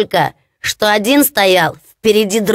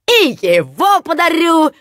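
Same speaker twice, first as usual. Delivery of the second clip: higher, cheerful reply; proud simpleton; 8 semitones higher than usual. Acted. Hans answering his mocking brothers, cheerful and proud. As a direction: answer as if it were a fine gift.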